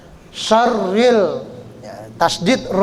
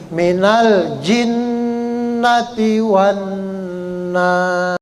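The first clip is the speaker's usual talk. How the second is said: zal as th sound; much slower than usual. Shown as a demonstration. Teacher modelling the zal sound, slow chant. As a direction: bite the tongue tip for the z in "Allazi".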